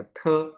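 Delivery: थ with a puff of breath; aspirated t. Shown as a demonstration. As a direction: push air out on थ. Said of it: "ये sound देगा".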